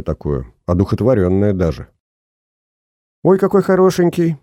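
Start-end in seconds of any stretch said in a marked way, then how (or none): 3.2-4.4 put-on high girlish squeal of delight. A narrator's reading. Albina gushes over the photo in a high squeal. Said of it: "запищала Альбина".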